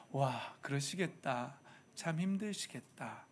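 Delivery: gentle sympathy. Retold or imitated. Child gently sympathizing with tired mom and dad, soft and slow. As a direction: soothe a tired parent.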